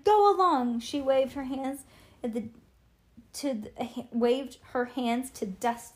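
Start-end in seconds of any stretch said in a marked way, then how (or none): 0.0-0.8 high, loud shoo; shout. A narrator's reading. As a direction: shout to chase them away. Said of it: "she shouted".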